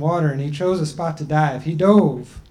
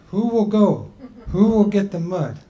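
a higher, slightly raised voice for the people; people's voice; 4 semitones higher than usual. Acted. The people telling Grandma Turtle she's too old, in a raised voice.

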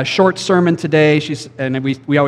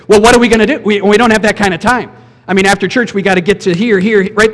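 higher, louder whiny excuse voice; mock busy complaint; 4 semitones higher, 4 dB louder, faster than usual. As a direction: play the harried churchgoer making excuses. Mocking busy churchgoers' excuses.

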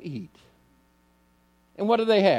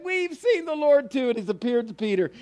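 excited news; 7 semitones higher than usual. Acted. Second group echoes the news.

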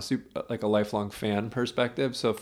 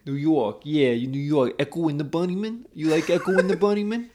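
lightly put-on New York character; a New Yorker's accent, rising into the questions; 4 semitones higher than usual. Asking about a band in a mock New York accent. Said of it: "you do the New York".

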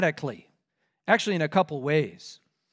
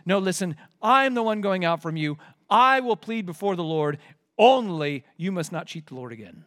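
mock firm retort. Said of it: "throws them right back at Pharaoh's face".

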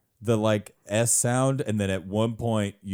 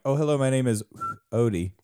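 whistle-talk character; 5 semitones higher than usual. Shown as a demonstration. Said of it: "someone who can whistle talk".

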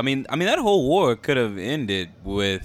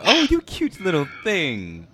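mock-doting coo, pitched up; cutesy cooing; 4 semitones higher than usual. Fan cooing over a mean-mugging little Lady Mormont, cutesy and teasing. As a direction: coo as if at an adorable little child.

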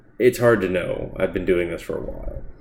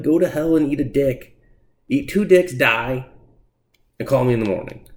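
higher, louder hammed-up telling-off; mock furious rant; 6 semitones higher, 3 dB louder than usual. Reviewer snapping at an annoying comic character, mock rage. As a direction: tell the Irish character off, half joking. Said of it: "and you're just like".

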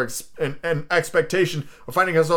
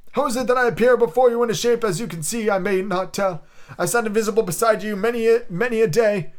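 ghost voice; 9 semitones higher, 3 dB louder than usual. Acted. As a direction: intone it like a chained spirit. Ghost speaks.

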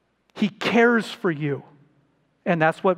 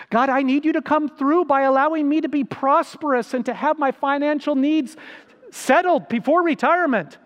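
mock pleading prayer; 4 semitones higher than usual. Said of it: "We're saying".

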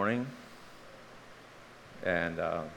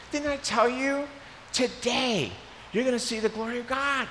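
higher, ringing preacher delivery; preached Jesus quote; 12 semitones higher than usual. Acted. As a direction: proclaim it like Jesus from the pulpit. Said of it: "here's Jesus saying".

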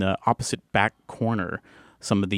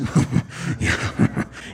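evil chuckle. Acted. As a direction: chuckle darkly to yourself. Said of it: "chuckle to himself evilly".

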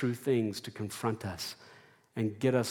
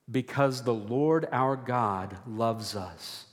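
slow, deliberate lead line; call and response; slower than usual. Shown as a demonstration. Preacher leading the church in a slow recited refrain. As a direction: lead the congregation in the refrain slowly. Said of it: "Would you say that with me?".

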